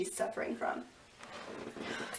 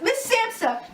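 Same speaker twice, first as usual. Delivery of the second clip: panicked shout; 11 semitones higher, 4 dB louder than usual. Acted. Reporter calls out.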